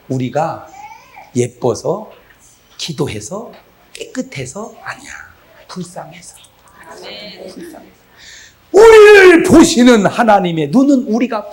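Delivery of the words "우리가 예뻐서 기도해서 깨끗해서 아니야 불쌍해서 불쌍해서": hushed. Real, not acted. Preacher softly tells the congregation why God pities them, hushed. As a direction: drop to a near whisper on 불쌍해서.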